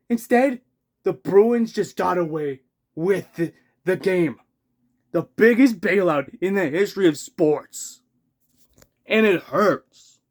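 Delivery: angry rant. Real, not acted. Fan ranting after painful loss.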